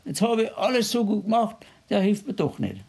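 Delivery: high, mocking complaint; grumbling at God. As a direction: play the sulking believer griping about God. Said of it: "auf Gott zu schimpfen".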